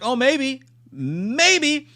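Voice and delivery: high, rising wishful voice; tentative hope. Retold or imitated. Viewer watching her rescue, tentatively hopeful. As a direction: squeak it with cautious hope.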